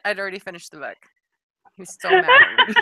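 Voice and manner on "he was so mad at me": laughing. Real, not acted. Laughing about husband's anger.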